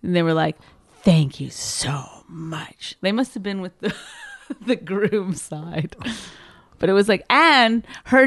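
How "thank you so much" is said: slow whispered thanks; hushed, grateful whisper; secret whisper. Retold or imitated. Girls thanking him secretly.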